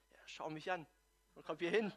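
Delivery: quiet, under-the-breath summons; barely voiced, secretive hint; hushed signal. Martha secretly signalling Maria to help, hushed.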